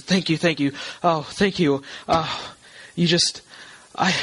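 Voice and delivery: lightly voiced woman's relieved thanks; a hint of overwhelmed gratitude; distressed woman. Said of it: "She says".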